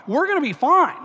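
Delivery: "We're gonna be fine" lifted up at the end, coaxing; soothing, rising "fine"; mock soothing peacemaker. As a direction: reassure the drunk guys, rising hopefully.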